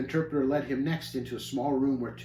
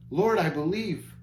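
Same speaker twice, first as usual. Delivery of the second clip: slow, yearning plea; longing cry; 4 semitones higher than usual. Acted. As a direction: reach out slowly with longing. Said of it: "Christian cried out longingly".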